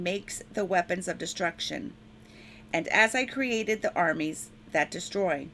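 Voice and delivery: measured, solemn reading of scripture; preacher reading Isaiah to the congregation, solemn. Acted. Preacher reads Isaiah aloud to church, solemn proclaiming.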